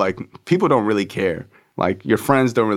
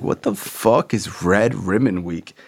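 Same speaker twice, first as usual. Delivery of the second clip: baffled; slower than usual. Retold or imitated. Kid confused by principal.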